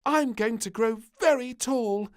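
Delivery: high, loud confident little voice; a girl sure she will grow; proud piping boast; little princess. A narrator's reading. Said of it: "said the little princess".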